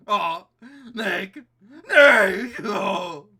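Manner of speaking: very loud, high calling out; excited shout. Acted. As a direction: shout his name in alarm. Character cries out to Nick.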